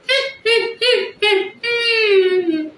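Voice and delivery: high mock cackling laugh, sing-song; mock cackle. Vlogger mocks Kamala with a high cackling laugh. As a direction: cackle like a sneering parody.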